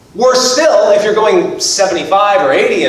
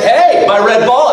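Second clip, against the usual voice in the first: put-on whiny little boy; 7 semitones higher, 5 dB louder, slower than usual. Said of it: "he's like".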